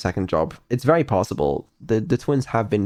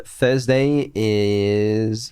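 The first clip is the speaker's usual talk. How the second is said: drawn out; 3 semitones higher, much slower than usual. Acted. Announcing the schedule with emphasis.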